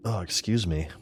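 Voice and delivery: talking between hiccups; words broken by hiccups; hiccuping. Real, not acted. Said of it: "I'm hiccuping like crazy".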